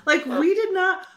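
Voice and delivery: put-on slow, grumbling old lady on the lawn; drawn-out cranky old-timer. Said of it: "like, the old lady on my lawn".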